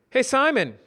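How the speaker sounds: high, loud friendly call; Brad voice. Acted. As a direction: call out brightly to a coworker.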